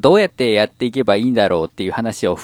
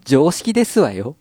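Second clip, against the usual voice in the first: Kurosawa Dia. Acted. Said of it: "僕が今何のキャラを必死でやったか".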